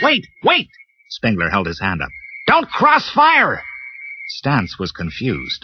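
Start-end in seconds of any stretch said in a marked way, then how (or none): 0.0-0.7 high urgent cry of wait; urgent alarm. Acted. Spengler stops the others. 2.5-3.6 high, slow, emphatic warning; urgent warning. Acted. Spengler warns them.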